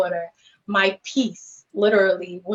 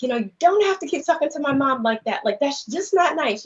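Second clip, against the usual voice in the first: higher, quick imitation of a daughter; daughter protesting; 5 semitones higher than usual. Daughter defending her mom to the man, imitated protest. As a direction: speak up for mom in a lifted voice. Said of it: "my daughter's just like".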